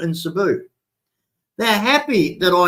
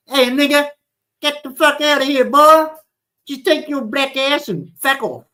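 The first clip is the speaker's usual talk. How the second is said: mock racist tirade; 8 semitones higher than usual. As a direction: sneer it out as a hateful bigot.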